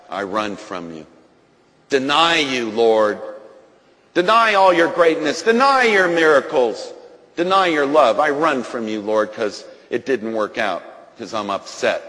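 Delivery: loud, defiant denial of God; defiant prayer. Retold or imitated. Preacher acting out turning from God, defiant. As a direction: throw the words at heaven. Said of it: "I said".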